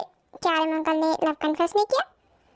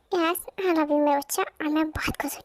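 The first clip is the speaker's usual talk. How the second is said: tender whisper; 3 semitones lower than usual. Acted. Mother reassuring son tenderly.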